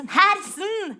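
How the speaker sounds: high sing-song call of the name. Acted. Comedian calling out to audience member Alison, high sing-song call. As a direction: call her name across the room, drawn out.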